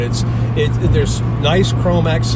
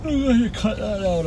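laughing; 8 semitones higher, 3 dB quieter, slower than usual. Real, not acted. Laughing after yawning on camera.

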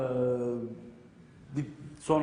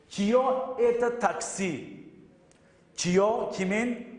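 slow model sentences; 3 semitones higher, slower than usual. Shown as a demonstration. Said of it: "Taksi demek arkadaşlar".

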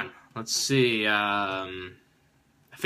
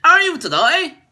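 silly alien voice; 14 semitones higher, 9 dB louder than usual. Acted. Alien voice greeting the viewers to open the video. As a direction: greet the humans like a visiting alien.

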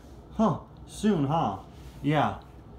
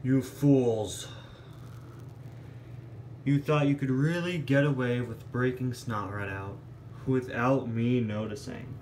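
villain voice; 2 semitones lower than usual. Acted. Villain reveals himself.

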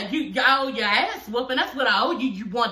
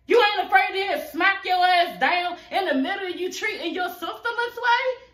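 rising outrage; 7 semitones higher than usual. Real, not acted. Outraged rhetorical question.

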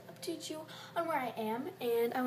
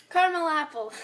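excited; 5 semitones higher, 13 dB louder than usual. Real, not acted. Excited exclaim.

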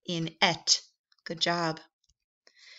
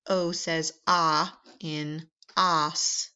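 slow phonics modeling. Shown as a demonstration. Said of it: "slow phonics explanation".

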